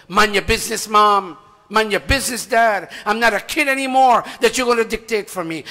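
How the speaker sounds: loud, indignant talking back; defiant teenager. Retold or imitated. Grown child loudly rebuffing parents, defiant. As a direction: snap back at mom and dad.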